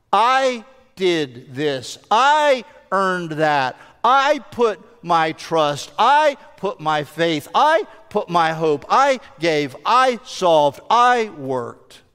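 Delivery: slow, every "I" leaned on and held; stress on I. Retold or imitated. Preacher listing first-person wrong answers, stress on "I". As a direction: hit each "I" hard, then pause.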